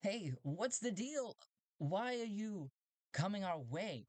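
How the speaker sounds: high-pitched odd robot voice; strange robot. Acted. Robots questioning the approaching ship, high robot voice. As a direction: squeak it out like a suspicious robot. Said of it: "The robots are like".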